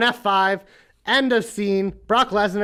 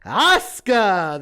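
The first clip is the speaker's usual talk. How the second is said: ring announcer; slower than usual. Pretend. Announcer reading the match card.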